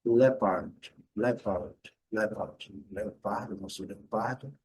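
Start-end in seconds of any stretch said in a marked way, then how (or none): 0.0-2.8 "leopard" said the American way with a sounded R at the end; American English "leopard" with the R; American pronunciation. Shown as a demonstration. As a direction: pronounce the R in "leopard", stress the first syllable. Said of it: "E no inglês americano".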